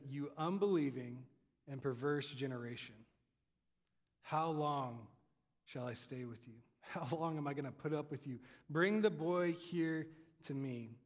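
low, measured rebuke with pauses; stern Jesus. Acted. Jesus rebukes the unbelieving crowd, sternly. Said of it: "A different tone from Jesus".

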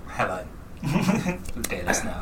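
unearthly voice. Acted. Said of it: "I can't keep that up".

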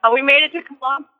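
bad phone line cutting out; choppy call breaking in and out; radio breaking up. Real, not acted. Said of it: "Oh, no, you're cutting out".

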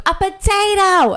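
high, slow, drawn-out whine; mock whiny customer. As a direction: play the fake choker's answer. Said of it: "He goes".

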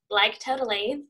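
a hint of a Valley girl; a playful "Like, totally" with a rise. Shown as a demonstration. Joking about her roots, lightly voiced Valley girl. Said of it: "I'm a Valley girl".

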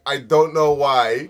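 slow mock British. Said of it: "British people be like".

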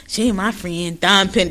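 lightly mimicked Puerto Rican accent; a hint of mock Puerto Rican accent; Jocelyn. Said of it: "Ain't like no Puerto Rican accent I ever heard".

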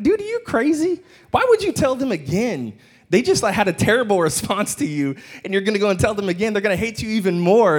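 "Dude, are you crazy?" with a sky-high pitch; incredulous aside. Retold or imitated. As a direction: pitch leaps very high in mock disbelief. Mock incredulous aside to Joseph.

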